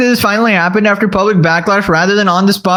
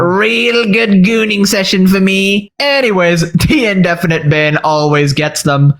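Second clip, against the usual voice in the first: lightly voiced nasal-free Pee-wee impression, slowed in places; a hint of Pee-wee Herman as the Twitch boss. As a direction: play a boss in a goofy Pee-wee style. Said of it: "Why you gotta use Pee-wee Herman".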